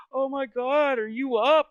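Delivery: very high, excited mom voice; a mom delighted to see the baby awake; high squealing greeting. Retold or imitated.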